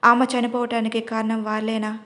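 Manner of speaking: ordinary delivery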